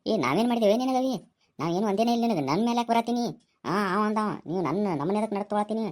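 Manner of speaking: high indignant protest. Acted. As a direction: protest your innocence, voice climbing high. Friends protest their innocence.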